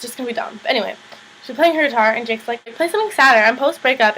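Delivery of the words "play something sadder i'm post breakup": higher, louder whiny request; a dumped guy begging for sadder songs; mock-mopey ex-boyfriend asking for something sadder; mopey Jake.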